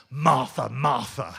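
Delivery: loud, sharp rebuke of her name; wrong, scolding voice. Shown as a demonstration. The wrong way to hear Jesus: loud scolding. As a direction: scold her like a cross parent. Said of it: "that's the wrong voice".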